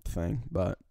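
sore throat after smoking; throat burning, clearing it mid-line; throat on fire. Real, not acted. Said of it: "my throat's on fire from your".

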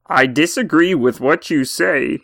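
lightly voiced lofty professor, slowed down; measured, mildly put-on debater's voice; a hint of a pompous academic; Jordan Peterson. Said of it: "Doctor Peterson, thank you for joining us".

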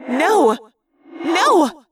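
faltering thought-speak rising into cries of no; Rachel. A narrator's reading. Rachel realizes the Queen has her, building distress. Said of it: "it was Rachel's thought-speak voice".

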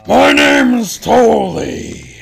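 very high, slow, squeaky voice; squeaky high character voice. Acted. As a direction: stretch it out in a tiny squeak. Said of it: "Help me find a voice for Toly".

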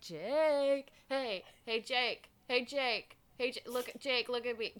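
lightly voiced nagging goblin, building to a loud laugh; coax, then burst out laughing on the last Jake; pestering Drode. Host imitates the Drode pestering Jake, building mock insistence. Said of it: "And he's like".

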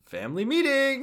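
high sing-out summons; calling out. Acted. Haruka summoning the orphans, high calling voice.

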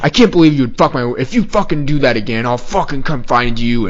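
mock irate threat; fired-up guy threatening. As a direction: imitate a ranting stranger. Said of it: "this guy is really fucking fired up".

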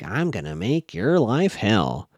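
slow, drawn-out menace; understated slow threat; mock threat. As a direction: stretch out the threat word by word. Acted threat from angry Kate.

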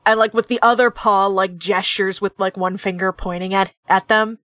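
usual speaking voice

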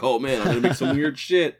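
excited quote. Retold or imitated. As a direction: act out giddy discovery of new powers. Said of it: "when Peter learns about his powers".

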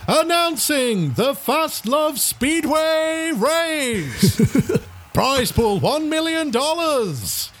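high, drawn-out stadium announcer; race announcer. Acted. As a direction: call out the line-up slowly, stretching each name. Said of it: "The announcer comes on".

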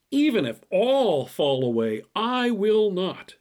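boastful vow, rising high and slowing on the last words; bravado. Retold or imitated. Peter boasting to Jesus that he will never fall away, proud and slow. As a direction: swear it like nobody could shake you. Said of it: "Now there's some bravado".

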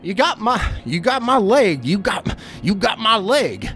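high-pitched panicked cry in the dark; George Piston crying out. Acted. Trapped creature-victim cries out in the darkness, high-pitched cry. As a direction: cry out high, repeating it frantically. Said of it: "who cries out in the darkness".

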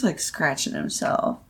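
hushed whisper about the bug. Real, not acted. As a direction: whisper so the bug won't hear. Watching a bug closely.

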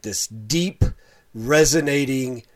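a hint of a deep, charismatic voice, slowed down; deep resonating voice. Shown as a demonstration. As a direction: lightly put on a deep, authoritative sound. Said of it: "an authoritative sound to his voice".

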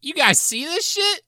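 a lightly Bronx Dorothy; street-tough Bronx drawl, playful; Bronx accent. Acted. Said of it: "sound like they're from the Bronx".

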